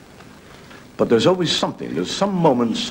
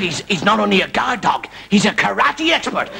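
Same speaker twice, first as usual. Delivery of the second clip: mock Japanese accent; 8 semitones higher than usual. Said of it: "there's a Japanese fellow".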